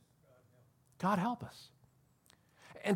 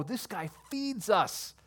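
excited crowd; 8 semitones higher, 3 dB louder, slower than usual. Retold or imitated. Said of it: "and they go".

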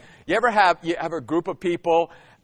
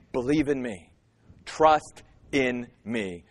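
soft reassurance; 8 semitones lower, 6 dB quieter than usual. Acted. Jesus's comforting words quoted.

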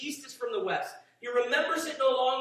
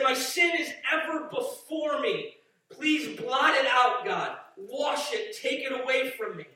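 loud, high begging cry; desperate plea; 4 semitones higher, 5 dB louder, slower than usual. Acted. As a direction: plead as a broken sinner. Voices a convicted sinner's plea.

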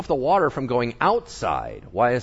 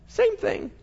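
knowing aside. Acted. Punchline in a put-on voice.

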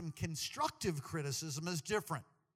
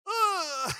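high, loud exclamation breaking into laughs; loud high whoop of laughter; 13 semitones higher, 12 dB louder than usual. Real, not acted. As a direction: burst out helplessly. Reacts to the ugly-fat joke.

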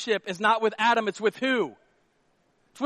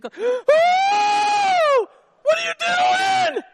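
very high, loud, slow shocked yell; Adam shrieking at the animals in mock shock; 8 dB louder, much slower than usual. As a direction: shriek at what you just walked in on.

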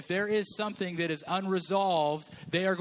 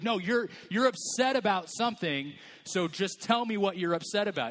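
higher, pushing insistence; frustrated partner; 4 semitones higher than usual. Retold or imitated. Partner pressing the peacemaker, higher and insistent. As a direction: press them to admit it. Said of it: "And you're like".

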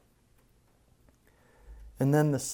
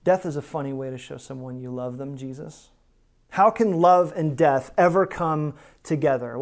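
mock scoffing doubter, lightly voiced; a hint of a cold sneering skeptic; sneering cynic; 3 dB louder than usual. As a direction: voice the raised eyebrow of disbelief, half-mocking. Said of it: "the cold sneer of cynicism".

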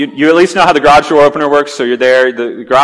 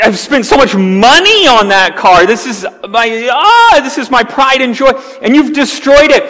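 angry scream; 8 semitones higher than usual. Pretend. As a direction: scream it like a neighbor whose pride and joy is wrecked. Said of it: "starts screaming".

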